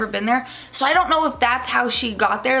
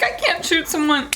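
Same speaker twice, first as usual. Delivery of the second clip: retold crying scream; 7 semitones higher than usual. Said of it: "I'm crying, screaming".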